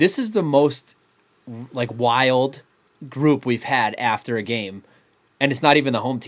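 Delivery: normal talking voice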